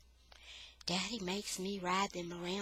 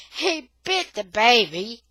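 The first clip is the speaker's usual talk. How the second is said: urgent shout; 4 semitones higher, 12 dB louder than usual. Acted. Grandpa reports the bite.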